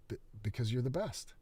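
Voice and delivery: forced repeat. Acted. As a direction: try again under pressure. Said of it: "Say it like you mean it".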